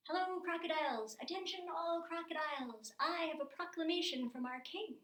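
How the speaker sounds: calling out high and loud like a herald; royal proclamation. Acted. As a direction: announce it across the water to every crocodile. Mouse Deer calls to crocodiles.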